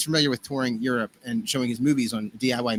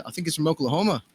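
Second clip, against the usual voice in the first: badly faked British accent; mock an English tour manager's accent; a famous drummer. Tour manager answering the sound guy, bad British impression. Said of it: doing a terrible impression of a famous drummer.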